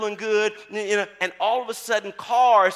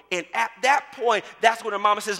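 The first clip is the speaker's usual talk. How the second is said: normal talking voice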